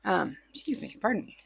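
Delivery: just sneezed; recovering from a sneeze; after a sneeze. Real, not acted. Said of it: "I have to sneeze".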